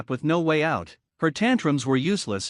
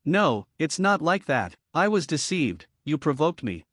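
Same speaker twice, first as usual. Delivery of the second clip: understated faltering denial, slowed down; stammering. Acted. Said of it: "she stammered".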